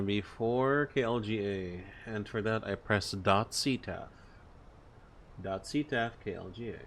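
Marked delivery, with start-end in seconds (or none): none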